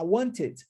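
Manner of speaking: "want it" linked as "wan-tit"; T pronounced. Shown as a demonstration. Teacher asks if this form is possible, T kept. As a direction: run "want it" together with an audible T. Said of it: "no inglês britânico".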